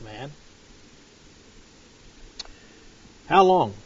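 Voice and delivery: paraphrased prophet's lament. Acted. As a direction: voice Isaiah complaining to God. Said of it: "This is my interpretation now".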